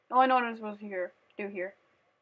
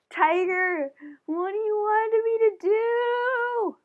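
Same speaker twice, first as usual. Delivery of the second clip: talking to the cat; 9 semitones higher, 4 dB louder, slower than usual. Real, not acted. Speaking to the cat.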